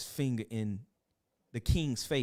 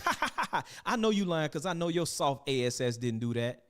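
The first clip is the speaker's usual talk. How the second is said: mocking laugh. Father mocking his son.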